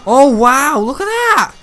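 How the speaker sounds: very high, loud cheering; excited cheering. Real, not acted. Gamer cheering the fight on, high excited yells.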